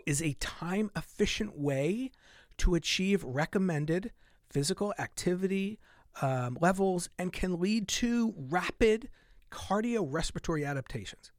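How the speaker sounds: slow, deliberate read of the study line. Shown as a demonstration. Reading a study quote to viewers, slowly and deliberately. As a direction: lean on each phrase, unhurried. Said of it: "Let me read it again".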